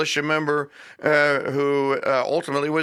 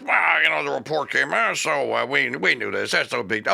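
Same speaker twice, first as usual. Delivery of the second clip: mocking dismissal; 2 semitones lower than usual.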